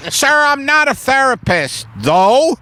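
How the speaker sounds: high-pitched, hesitant courier; timid courier offering credentials; earnest delivery person. Acted. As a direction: call back helpfully in a high voice. Voices delivery person answering the customer.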